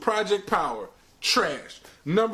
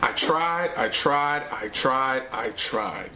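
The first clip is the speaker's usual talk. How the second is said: each I tried sinks lower and fades away; giving up; 7 semitones lower, slower than usual. Real, not acted. Reviewer admitting he could not finish, fading defeated repeats. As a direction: sound defeated, letting it drain out.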